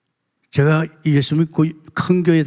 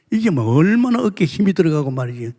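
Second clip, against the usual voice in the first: normal talking voice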